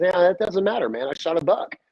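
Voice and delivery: mock a proud hunter waving questions away; retold brush-off. Nephew brushes off uncle's questions, retold dismissal.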